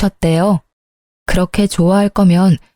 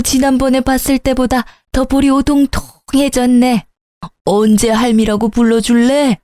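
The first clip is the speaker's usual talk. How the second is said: doting grandmother; 2 semitones higher than usual. Acted. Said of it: "아주 딴 사람이 되시더라고요".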